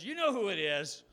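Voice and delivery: loud, high furious shout; angry shout. Acted. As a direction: throw it at him in a rage. Angry driver snaps at farmer.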